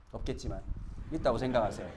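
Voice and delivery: usual speaking voice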